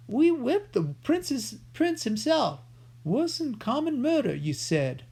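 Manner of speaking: a hint of a scared thief; frightened outlaw. A narrator's reading. Cutwater voiced.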